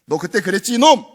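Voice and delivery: a hint of a scolding devil; accusing voice. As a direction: jab at the sinner's past. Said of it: "이건 마귀나 하는 짓이지".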